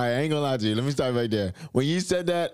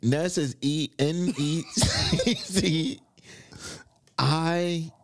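slow unsure spelling; 4 semitones higher, much slower than usual. Real, not acted. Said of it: "Un is U N".

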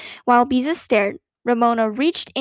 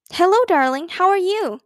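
higher, lilting hello; cheery greeting; 6 semitones higher, 3 dB louder than usual. A narrator's reading. Aunt phoning her niece, affectionate cheery greeting. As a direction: greet a dear niece brightly on the phone.

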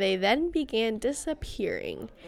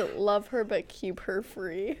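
whispered quote; 3 semitones lower, 8 dB quieter, slower than usual. Shown as a demonstration.

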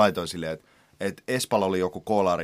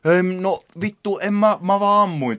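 mock excuse-maker; 9 semitones higher than usual. Host mimicking a culprit denying intent to kill, mock protesting voice. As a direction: draw it out like a feeble excuse. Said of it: "Toi silleen".

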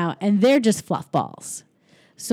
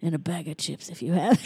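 mock tough line. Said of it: "He said".

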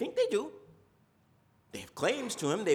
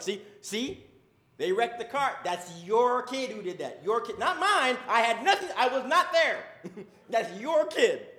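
higher, louder blame-shifting with laughs; defensive parent; 4 semitones higher, 4 dB louder than usual. Retold or imitated. Parent disowning the kid's car wreck to the spouse, higher and laughing. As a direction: deny everything, point at the other parent.

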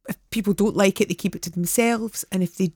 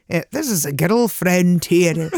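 put-on old man voice; 4 dB louder, slower than usual. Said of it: "And Mark went".

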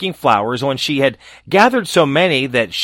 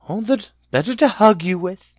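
high, sly false granny voice; creepy grandma impersonation; wolf voice; 7 semitones higher than usual. A narrator's reading.

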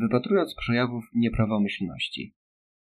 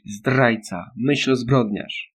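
loud chanted accusations; shouting; 4 dB louder, much slower than usual. Acted. Kids jumping round Winston, loud taunting shouts. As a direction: yell it like a taunt. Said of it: "zaczęli skakać wokół niego i krzyczeć".

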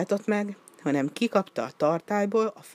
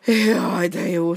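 sigh of relief; 3 semitones higher, 6 dB louder, much slower than usual. A narrator's reading. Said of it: "sóhajtotta".

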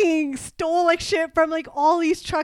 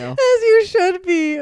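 1 sassy drawl; 4 semitones higher, 5 dB louder, much slower than usual. Pretend. Playful self-praise.

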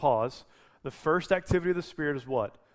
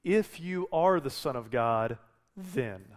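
slow quoted question; slower than usual. Shown as a demonstration. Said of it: "Satan's fundamental question to Jesus".

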